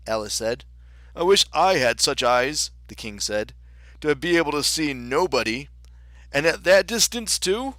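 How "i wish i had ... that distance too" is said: White King, impressed. Acted.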